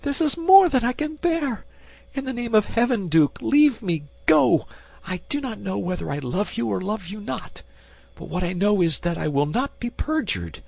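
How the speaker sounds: very high, pleading queen begging him to go; desperate queen imploring. Acted. Queen begs the duke to depart, high and pleading.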